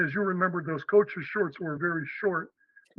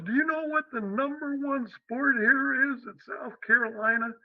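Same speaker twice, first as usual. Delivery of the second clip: higher-pitched mock Southern accent; 7 semitones higher than usual. Athletic director quizzes the new coach, Southern accent. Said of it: "in a real Southern accent".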